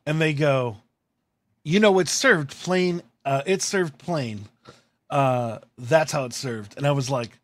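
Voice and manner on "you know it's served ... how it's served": slow, matter-of-fact imitation of an order taker; lightly voiced worker reciting policy; drive-thru worker. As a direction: explain it slowly, as to a customer.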